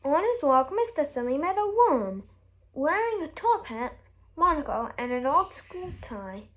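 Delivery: plain reading voice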